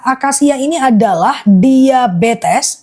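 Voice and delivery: very slow, measured list reading; slow, focused repeat. Real, not acted. Seller resuming the acacia list after thanks, slowly. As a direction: stretch out each term, item by item. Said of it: "aku ulang akasia fokus ya".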